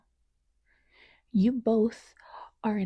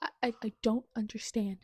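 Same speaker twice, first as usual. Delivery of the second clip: softer, stammering quote of the hero; hero's stammer; 7 dB quieter than usual. Retold or imitated. Reader quoting the hero's first words, stammered and soft. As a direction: stutter the line as the shaken hero. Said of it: "was the first words out of his mouth".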